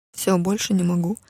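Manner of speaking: ordinary delivery, nothing marked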